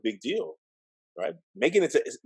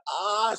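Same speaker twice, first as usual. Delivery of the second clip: mock yelp; 11 semitones higher than usual. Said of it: "I yelled".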